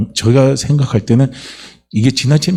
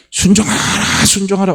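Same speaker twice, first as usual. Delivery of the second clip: high, whispery mocking order; mock nagging command; 10 semitones higher than usual. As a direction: parody a pushy church member. (억지로 순종을 강요하는 사람 흉내, 높은 속삭임)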